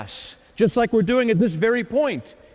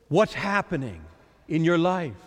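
gentle Lord; 3 semitones lower than usual. Acted. The Lord speaks from chair.

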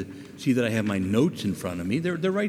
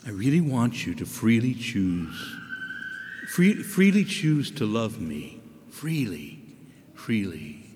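gentle voice of God; 2 semitones lower, slower than usual. Acted. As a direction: coax them tenderly to choose love. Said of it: "And the Lord says".

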